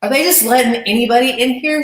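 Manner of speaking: mock snooty complaint. Wrestling star sneering at a newcomer, snooty. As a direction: imitate a rude star dismissing the newcomer. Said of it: "She's so rude".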